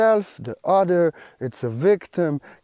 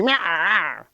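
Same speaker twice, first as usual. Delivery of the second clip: meow. Retold or imitated. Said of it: "They tell you".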